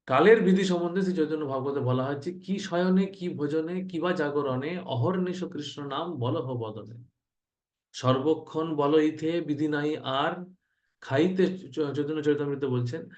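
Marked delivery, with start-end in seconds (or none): 2.3-11.6 verse recitation. Acted.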